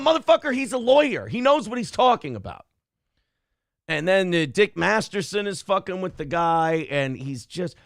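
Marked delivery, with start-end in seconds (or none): 0.0-2.7 exasperated outburst. Retold or imitated. Watching the clip and yelling at the writer, exasperated. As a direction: yell it at the screen, then settle. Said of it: "And I'm going".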